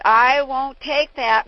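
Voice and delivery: loud, slow, no-nonsense; firm insistence. Retold or imitated. Neighbor lady overruling Jack's mother, loud and firm. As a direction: put her foot down. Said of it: "the neighbor lady said".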